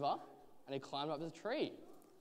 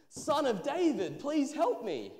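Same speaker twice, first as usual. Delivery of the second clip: high, loud cry for help; raised-voice pleading; refusing to be quiet; 10 semitones higher, 8 dB louder than usual. A narrator's reading. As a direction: call out insistently over the crowd. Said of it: "he would not be quiet".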